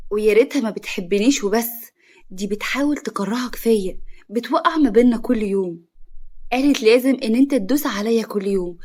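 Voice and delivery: loud, wronged lament; tearful grievance. A narrator's reading. Wife complaining to her husband of his mother's injustice, upset. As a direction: plead the injustice, building to the last cry. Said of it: "وفضلت تعيط".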